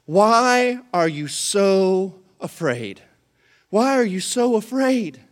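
slow, even and gentle; calm, slow question. Retold or imitated. Jesus calmly asking the frightened disciples, slow and gentle. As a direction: ask it calmly, unbothered. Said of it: "Jesus follows that up with this".

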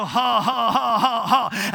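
forced praise laughter. Retold or imitated. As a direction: push out a forced ha ha. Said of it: "like Brother Mark goes".

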